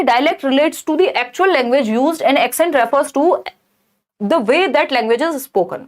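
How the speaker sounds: slow, deliberate reading of a test option; slow exam-question reading. Acted. Teacher reading an exam option aloud slowly. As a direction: spell out each word slowly for students.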